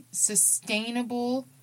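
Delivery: "sustainable" drawn out slowly, each syllable leaned on; stressed sustainable. Shown as a demonstration. Host stressing healthy habits to listeners, slow weight on "sustainable". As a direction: lean on "sustainable", stretch it slow. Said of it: "I emphasize the word sustainable".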